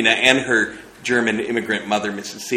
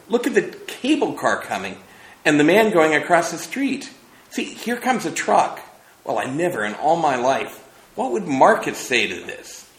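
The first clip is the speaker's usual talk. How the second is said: much higher, breathless wonder at each sight; excited, carried away; 7 semitones higher than usual. Acted. McTeague narrating the film to Trina, carried away. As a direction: pile up the amazement. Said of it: "he cried excitedly, quite carried away".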